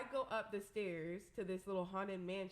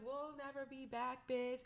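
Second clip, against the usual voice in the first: raised-pitch mock defiance; retold defiant yell; 4 semitones higher than usual. Retelling her parting words to club staff, mock defiant yell. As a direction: replay a parting shot, pitched up but not shouted. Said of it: "I start yelling back at them".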